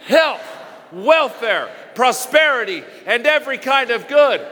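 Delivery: rising, fervent declaration with a shout on prosperity; like you believe it. Shown as a demonstration. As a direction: proclaim it with conviction, punching each word. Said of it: "Now say it like you believe it".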